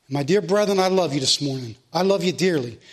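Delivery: low, tender pastoral assurance. Real, not acted. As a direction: ease down low and tell the flock sincerely. Preacher tenderly assures congregation of love.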